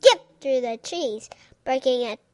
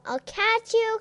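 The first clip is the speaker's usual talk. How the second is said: cried; 9 semitones higher than usual. Acted. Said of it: "cried Neelie".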